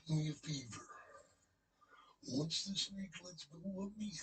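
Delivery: Macho Man impression. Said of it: "He's like".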